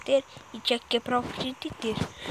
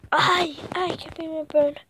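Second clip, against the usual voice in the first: fake pain; 4 semitones higher, 6 dB louder than usual. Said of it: "Você tá fingindo aqui mesmo?".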